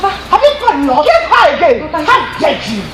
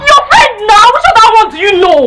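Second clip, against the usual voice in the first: high, exclaimed retort; excited impatience; 3 semitones higher than usual. Acted. Telling sister which friend, excited and impatient. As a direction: answer as if it were obvious.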